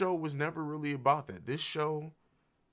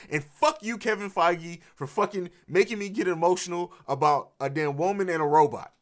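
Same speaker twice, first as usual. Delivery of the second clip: higher, louder, half-joking outburst of frustration; mock angry rant; 5 semitones higher, 7 dB louder than usual. Viewer ranting at Kevin Feige for making him cry, mock-angry shout. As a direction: playfully curse out the producer for the tears.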